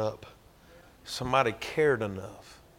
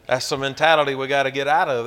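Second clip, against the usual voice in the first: "That's the mentality we gotta get out of" said again much louder, hammered home; preacher driving the point home with a louder echo; louder repeat; 2 semitones higher, 8 dB louder than usual. Shown as a demonstration. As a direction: hit the repeat hard so it lands. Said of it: "first take plain".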